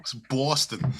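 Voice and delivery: slow Boston accent on "Boston". Shown as a demonstration. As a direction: draw out "Boston" in an attempted Boston accent. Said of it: "It's the only Boston thing I can do".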